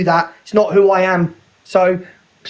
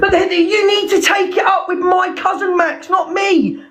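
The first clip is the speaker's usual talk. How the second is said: shouting; 8 semitones higher than usual. Real, not acted. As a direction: yell it back in frustration. Angry argument on a live.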